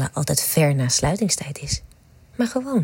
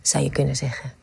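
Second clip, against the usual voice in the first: intimate whisper. Acted. Whispering to a lover in front of the Nachtwacht, hushed and intimate. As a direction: murmur it like a secret to a lover.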